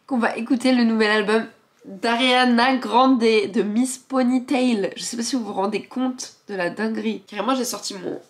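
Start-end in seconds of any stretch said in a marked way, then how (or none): 0.1-4.9 slow, loud, hyped-up announcement; drawn-out fangirl hype; excited. Acted.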